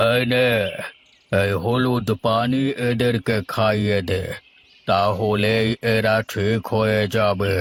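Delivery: a village healer's slow, grave pronouncement; lightly voiced healer, drawn-out and solemn; slow kabiraj. Healer gives cure to girls. (ধীর গম্ভীর কবিরাজের কণ্ঠ)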